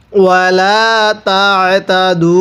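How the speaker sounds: তাতাদু with light pressure in the throat on the ain; throat-pressed ain. Shown as a demonstration. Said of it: "গলার মধ্যে হালকা চাপ দিয়ে পড়ব".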